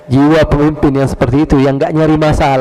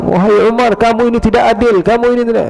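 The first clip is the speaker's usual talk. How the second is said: higher, accusing rebuke; angry complaint; 6 semitones higher than usual. Retold or imitated. Uyainah scolding the caliph, angry. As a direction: accuse Umar of injustice. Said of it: "Marah-marah, dia bilang".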